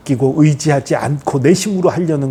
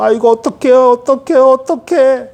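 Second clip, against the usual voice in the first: high, loud, frantic repeating; acted flustered panic, pitch climbing; panicked weak believer; 9 semitones higher, 5 dB louder than usual. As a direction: wail helplessly, not knowing what to do. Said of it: "이게 믿음이 연약한 자의 모습이고요".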